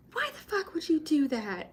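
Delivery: high-pitched mock outrage; retold yell. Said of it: "like, yelled at us".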